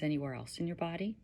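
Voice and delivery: gentle guiding voice with long pauses; unhurried, slightly hushed meditation guide; guided meditation. Acted.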